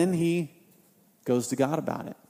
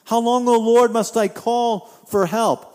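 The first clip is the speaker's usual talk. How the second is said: higher, louder pleading cry; anguished plea; 5 semitones higher, 4 dB louder than usual. Acted. Habakkuk crying out to God, higher, louder anguished plea. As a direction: plead with God through the pain. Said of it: "And he's saying".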